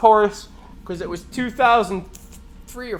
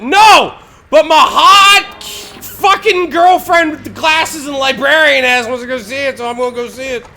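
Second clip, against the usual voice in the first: loud high laughing shout; half-yelling through laughter, hammed up; a randy boyfriend's laughing outburst; excited outburst; 6 semitones higher, 7 dB louder than usual. Mocking his own horny reasoning.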